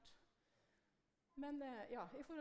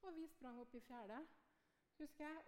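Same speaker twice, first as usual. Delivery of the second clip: usual speaking voice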